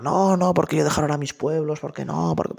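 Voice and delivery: high, fast protesting priest, a light caricature; stubborn mountain priest. Retold or imitated. A mountain priest refusing the bishop's transfer, high and flustered. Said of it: "y el otro".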